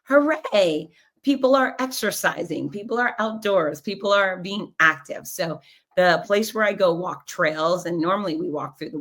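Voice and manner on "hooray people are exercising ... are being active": lightly voiced giddy fitness-expert thought; giddy inner cheer. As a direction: cheer on everyone in your head, delighted. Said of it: "I'm always giddy fitness expert thinking".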